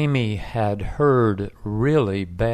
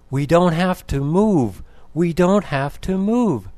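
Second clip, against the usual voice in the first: higher, narrated cry of relief; joyful yell, held a little in check; mild excited yell; 7 semitones higher, 3 dB louder than usual. A narrator's reading. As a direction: call out the good news, pitched up. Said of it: "she yelled".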